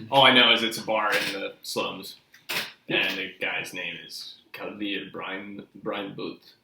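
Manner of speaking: put-on Russian accent. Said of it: "they're all Russian now".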